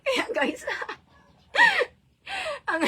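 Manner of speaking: high, breaking into laughter; laughing. Real, not acted. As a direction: laugh through the words. Laughing at husband's joke. (tumatawa nang matinis)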